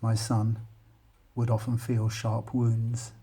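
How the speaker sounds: measured, deliberate reading of a poem. Acted. Teacher reads poem aloud.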